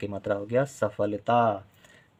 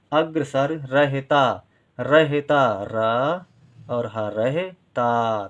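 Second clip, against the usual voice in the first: slow sounding out; much slower than usual. Shown as a demonstration. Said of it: "teacher sounds out the word".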